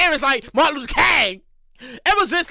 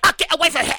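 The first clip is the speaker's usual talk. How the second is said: mock protective friend; 2 semitones higher, 4 dB louder than usual. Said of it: "and her friend like".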